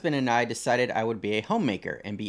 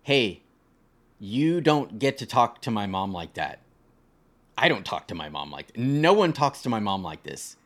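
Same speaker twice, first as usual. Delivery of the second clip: stern husband; 3 semitones lower than usual. Retold or imitated.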